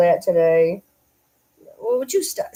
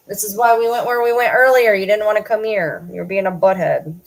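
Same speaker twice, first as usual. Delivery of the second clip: louder, firm scolding tone; scolding the dog; 3 semitones higher, 4 dB louder than usual. Real, not acted. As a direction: tell the dog off.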